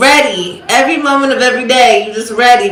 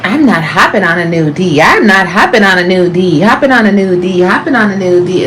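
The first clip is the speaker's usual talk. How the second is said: mocking quote. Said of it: "You guys be so, like".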